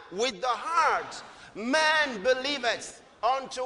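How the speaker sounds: slow recital left hanging; slow repeat, left open. Shown as a demonstration. Preacher prompting the congregation, slow recital. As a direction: stop short so they fill in the word. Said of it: "One more time".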